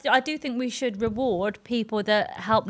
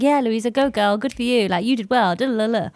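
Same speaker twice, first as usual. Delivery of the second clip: lively, slightly louder hype; cheerleading friend; 4 dB louder than usual. Retold or imitated. Old chatbot hyping up its user, cheerleading. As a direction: cheer her on like a supportive girlfriend. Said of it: "she'd be like".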